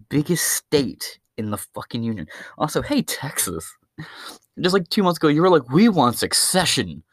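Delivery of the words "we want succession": mock demand. Mimics Texans demanding secession.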